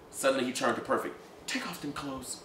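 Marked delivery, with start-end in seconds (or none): 1.5-2.4 cold quiet order. Acted.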